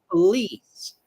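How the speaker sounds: "Police" said pə-LEES, second syllable stressed; stress on the middle syllable. Shown as a demonstration. Teacher repeating police with middle stress. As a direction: land on the LICE of "Police". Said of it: "the stress syllable is the one in the middle".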